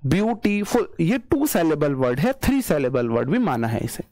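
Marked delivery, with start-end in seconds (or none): 0.1-0.9 ब्यूटीफुल in three beats, ब्यू-टी-फुल; syllable by syllable. Shown as a demonstration. Teacher counting syllables for students, ब्यूटीफुल in distinct beats. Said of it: "कहीं ना कहीं मैं pause ले रहा हूं".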